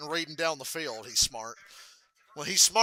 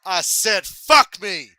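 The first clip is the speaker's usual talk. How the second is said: loud repeated curse, higher; angry yell; 4 semitones higher, 14 dB louder, much slower than usual. Retold or imitated. Tourette's Guy repeating himself to the caller, yelling. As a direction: shout it back at the caller. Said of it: "And he goes".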